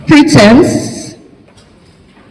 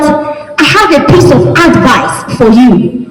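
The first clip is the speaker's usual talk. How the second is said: "advice" punched on its opening AD; stress on first syllable. Shown as a demonstration. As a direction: hit the first syllable of "advice", noun form. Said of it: "Can you also see that my intonation changed".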